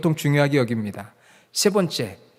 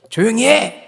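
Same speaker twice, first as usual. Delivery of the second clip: loud adult command; 7 semitones higher, 5 dB louder than usual. Acted. One word from an adult to noisy children, loud scolding shout. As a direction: cut through the noise with one shout. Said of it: "딱 한마디 어른이 크게 하면은".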